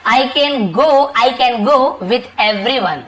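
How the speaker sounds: very slow example sentence; slow teacher demo; slow dictation. Shown as a demonstration. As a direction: read it out slowly for learners. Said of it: "slow model sentence".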